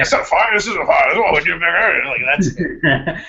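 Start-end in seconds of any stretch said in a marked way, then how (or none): 0.0-2.0 a hint of the old-school dad, loud; hammed-up old-school father; Eddie Murphy dad impression. Podcast host riffs on Eddie Murphy's dad, lightly voiced. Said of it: "his impression of his dad".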